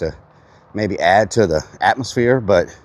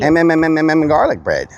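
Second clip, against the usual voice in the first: silly voice; 5 semitones higher than usual. Pretend. Streamer reading a viewer's name aloud, goofy voice. Reads chatter name in funny voice.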